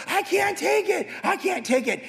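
high-pitched mock despair; desperate cry. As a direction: cry out at breaking point. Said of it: "I was like".

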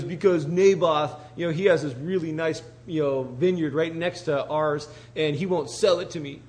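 mock petulant whine over being refused; sulky tantrum. King whines to his wife about the neighbour's vineyard, mock tantrum. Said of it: "having a little temper tantrum".

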